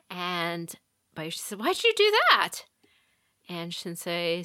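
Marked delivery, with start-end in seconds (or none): 1.6-2.6 very high, loud mock yelp; indignant protest. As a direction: cry out as if wrongly punched. Punched pupil protests to old man.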